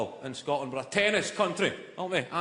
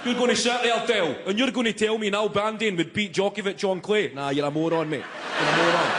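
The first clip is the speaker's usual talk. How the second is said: mock pub row, starting high; hammed-up exasperated quarrel; heated argument; 5 semitones higher than usual. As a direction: argue indignantly, then dismiss your mate. Acted pub argument over tennis.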